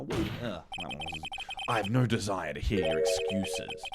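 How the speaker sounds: lightly voiced courtroom characters; deliberate sinister police chief; character voices.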